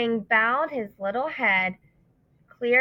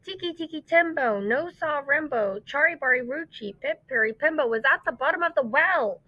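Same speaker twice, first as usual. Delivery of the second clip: shout fading; 6 semitones higher than usual. Acted. Chang shouting for the old man with the ladder, fading. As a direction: call out with the last breath, then tire. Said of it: "he shouted".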